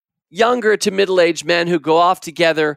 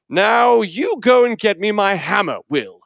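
higher, bossy British uncle calling out orders; shouting Uncle Podger; 3 semitones higher than usual. Acted. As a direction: bark orders across the house like a flustered uncle. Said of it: "he would shout".

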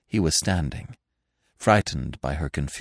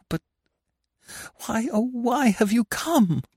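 high, rising to a desperate cry; anguished lover pleading why; anguished Anna; 9 semitones higher than usual. A narrator's reading. Anna to Gurov on the stairs, high anguished plea.

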